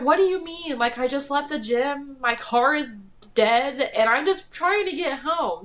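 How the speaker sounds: imitated flustered self-defense; retold freaking out. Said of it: "she's freaking out".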